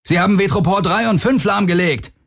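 high, urgent call with a hint of panic; calling over the noise. A narrator's reading. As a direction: shout it over the alarms, a touch panicky. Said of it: "rief Akina über den Lärm". (hoher Ruf über den Lärm, mit einem Hauch Panik)

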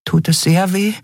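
high, small voice asking carefully; a tiny creature asking gently; cautious fairy voice. A narrator's reading. Nelen fragt den verletzten Kria vorsichtig, hohe zarte Stimme. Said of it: "fragte Nelen vorsichtig".

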